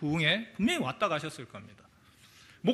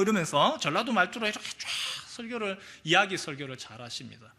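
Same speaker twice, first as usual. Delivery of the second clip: ordinary delivery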